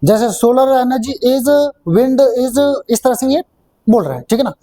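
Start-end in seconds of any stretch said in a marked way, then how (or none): 0.0-2.8 imitating one flat tone, very slow; mocking the student's flat sing-song reading; mock monotone. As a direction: drag every word out on one note. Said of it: "एक ही tone में बोल रहे हैं".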